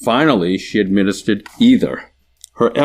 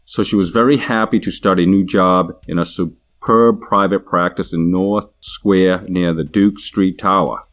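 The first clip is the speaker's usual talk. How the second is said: story read aloud in a Boston accent. Shown as a demonstration. Demo speaker reads the sample story in Boston accent. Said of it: "Boston accent".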